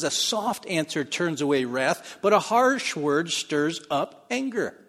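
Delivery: slow, weighty recitation of the proverb; slow scripture reading. Shown as a demonstration. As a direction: lean on each word slowly. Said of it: "Proverbs fifteen one says".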